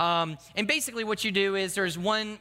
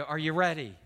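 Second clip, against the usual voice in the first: mildly wary question, kept at ordinary pitch; hesitant check. Acted. Dropped teen getting up for another fall, hesitant check. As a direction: ask with a touch of distrust. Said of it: "I'm very hesitant to be able to trust them again".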